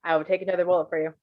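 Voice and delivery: fast, flat, matter-of-fact; blunt deadpan delivery; deadpan repeat. Retold or imitated. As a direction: throw it out bluntly. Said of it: "Just straight up".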